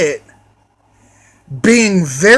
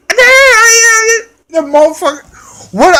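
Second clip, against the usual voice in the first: high cracked yell breaking into a shout; furious shout; 13 semitones higher, 4 dB louder, slower than usual. Real, not acted. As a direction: let the outrage burst out, much higher. Ranting about the driver.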